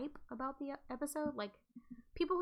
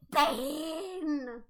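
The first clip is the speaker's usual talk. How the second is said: calling out; 5 semitones higher, 7 dB louder than usual. Pretend. Calling out in video.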